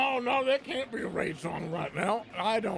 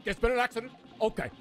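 funny voice. Acted. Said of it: "stop doing that voice".

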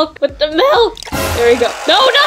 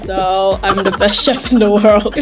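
lower, posh-star voice, lightly put on; acting like Miss T; 7 semitones lower than usual. Vidya grabbing the cooking from the babysitter, lightly voiced Miss T. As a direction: play the movie-star chef. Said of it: "you're acting like Miss T".

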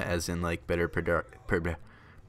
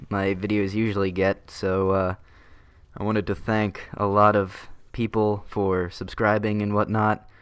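squeaky voice from balloon helium; 4 dB louder than usual. Real, not acted. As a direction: talk after sucking helium from a balloon. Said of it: "that's why my voice is sounding funny".

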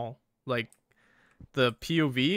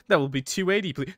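lightly voiced server, pitched higher; takeaway worker; 5 semitones higher than usual. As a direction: state the price politely in character.

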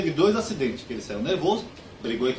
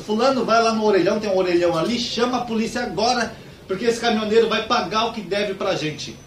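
high-pitched theatrical outrage; camp scandalized outburst; 6 semitones higher, 4 dB louder than usual. Acted. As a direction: make a hammed-up scene as an effeminate young man. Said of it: "já saíram fazendo escândalo".

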